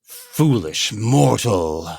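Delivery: slow, menacing villain voice; drawn-out doom-laden threat; dark lord. Acted. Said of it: "and say".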